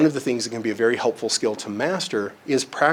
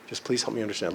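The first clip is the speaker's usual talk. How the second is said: hushed, gentle plea; soft, unpressured request; kindly; 9 dB quieter, faster than usual. Retold or imitated. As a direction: say it softly and kindly. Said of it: "very kindly say".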